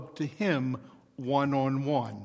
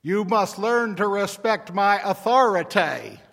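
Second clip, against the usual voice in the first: put-on Southern accent; 4 semitones higher, 5 dB louder than usual. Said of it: "in that overdone Southern accent".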